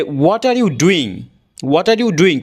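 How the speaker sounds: "What are you doing?" said slowly, word by word; each word clear and separate; full careful form. Shown as a demonstration. Teacher giving the long form: slow and clear. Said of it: "short ফর্মে কি বলা হয়".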